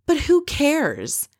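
imitating a bored shrug of a line, slowed way down; mock bored dismissal. Kelly dismissing the whole reunion.

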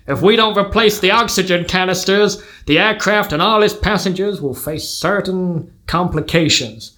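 measured American patriarch, weighty pauses; American accent. Acted. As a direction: play a commanding American father in an American accent. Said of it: "gonna have to do an accent".

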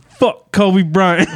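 loud slow laughing curse; laughing jeer. Real, not acted.

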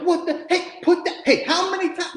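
high, loud, fed-up parent; loud mock scolding of a child; exasperated parent yelling. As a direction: snap at the kids in frustration. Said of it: "I'm like".

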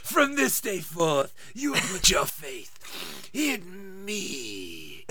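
slow, low villain decree; mock Dark Lord commanding faith; Harvey Fierstein Voldemort. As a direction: stretch each word out darkly. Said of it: "Even I don't sound like Harvey Fierstein".

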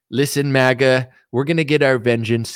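lightly voiced Trump addressing supporters; a hint of Trump rallying the base; mild mock Trump speech; Trump impression. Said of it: "imagine Trump gets in".

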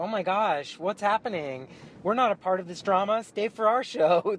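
nervous, trying to calm things; flustered band. Retold or imitated. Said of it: "They were just like".

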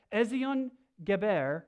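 slow, deliberate accent on the foreign place name; accented Hebrew place name. Real, not acted. Preacher reading a Bible place name to the congregation, accented Hebrew. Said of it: "I don't know why I say that with an accent".

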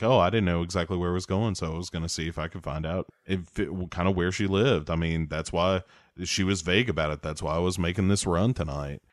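a mumbling suspect spouting excuses; mumbled excuses. Retold or imitated. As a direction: brush it off quietly and quickly. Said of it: "keeps spouting this bullshit".

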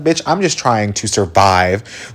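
slow, drained and blunt; slow exhausted comeback; weary deadpan. Retold or imitated. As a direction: say it like you're barely hanging on. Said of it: "And I'm like".

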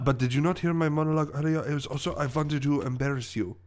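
put-on accented villain protesting he was not heard; lightly voiced huffy villain; French-accented villain, indignant. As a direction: insist on your scheme in a French accent.

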